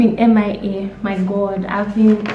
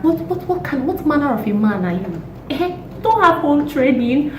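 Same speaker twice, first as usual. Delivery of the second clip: outraged scolding; 6 semitones higher than usual. Acted.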